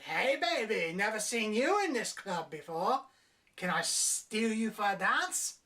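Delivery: a hint of a sleazy flirt; club perv. Perv hitting on her in the club, mock smooth. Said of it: "bring a perv".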